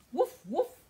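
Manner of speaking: loud, high mock woof; barking dog. Storyteller voices Dog barking for the children. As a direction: bark it out like a playful dog. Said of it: "said Dog".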